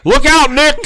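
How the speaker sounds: loud, high warning yell through a laugh; shouting a warning. Retold or imitated. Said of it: "I yelled".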